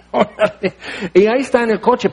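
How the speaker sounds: said through a laugh. Real, not acted. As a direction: let the laugh break into the words. Relato cómico del elefante.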